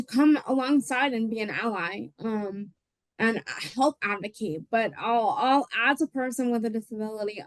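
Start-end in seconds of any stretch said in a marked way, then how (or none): 3.7-4.6 "help" stressed, falling away into "advocate"; emphasis on help. Real, not acted. Presenter with a disability urging allies, emphasis on "help". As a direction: lean on the word "help". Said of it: "I'll put the emphasis on the word help".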